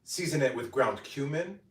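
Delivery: bright, measured cooking-video narration; voiceover read. Acted. Creator reading steps for her cooking video, upbeat voiceover. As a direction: read each step for the recipe voiceover.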